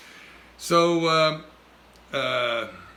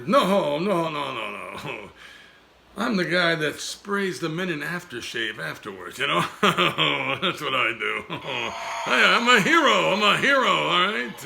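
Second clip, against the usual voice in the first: brash puppet voice, higher and louder; Dodney; 4 semitones higher, 4 dB louder than usual. Acted. Dummy boasting to host, brash puppet voice. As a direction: crow that you're a hero.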